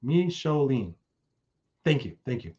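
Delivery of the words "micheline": "Micheline" said deliberately as mee-sho-leen; "Micheline" spaced out, falling at the end; careful name pronunciation. Real, not acted. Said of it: "I hope I got that right".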